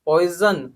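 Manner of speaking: पॉइजन with a buzzing z in the middle; z sound. Shown as a demonstration. Teacher showing students the z in पॉइजन. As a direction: stress the z in पॉइजन. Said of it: "ज, ज नहीं ज".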